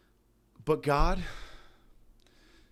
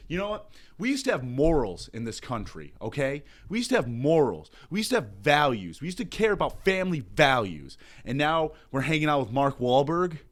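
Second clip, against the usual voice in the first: mock preacher; 5 dB louder than usual.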